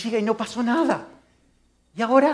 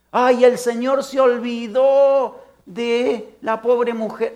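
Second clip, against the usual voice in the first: mock lament; 3 semitones higher, 4 dB louder, much slower than usual. Mocking a wrong idea.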